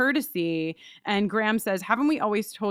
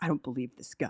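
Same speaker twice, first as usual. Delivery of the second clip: disgusted, very low, hushed mutter under the breath; 9 semitones lower, 7 dB quieter than usual. Retelling Brian's disgusted remark about the class: imitating muttering under breath. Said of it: "under his breath he goes".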